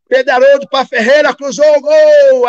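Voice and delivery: lightly hammed-up radio commentator calling the goal; radio announcer. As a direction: call the play like the stadium announcer. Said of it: "Aí o locutor".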